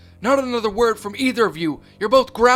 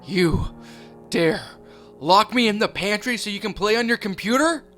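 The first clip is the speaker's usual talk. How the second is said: higher, louder, furious accusation; enraged; 6 semitones higher, 6 dB louder than usual. Acted. Mother furious at being locked in the pantry, enraged. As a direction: spit each word out in rage. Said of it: "a more enraged, infuriated tone".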